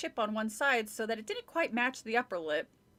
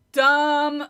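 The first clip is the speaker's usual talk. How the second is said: scornful; 4 semitones higher, 13 dB louder than usual. Acted. Sister mocking the dummy name.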